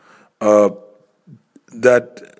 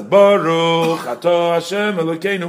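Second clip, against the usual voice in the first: cantor's blessing, said out loud and higher; cantor aloud; 4 semitones higher than usual. Shown as a demonstration. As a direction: call the blessing out for the whole room. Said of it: "while he's saying it out loud".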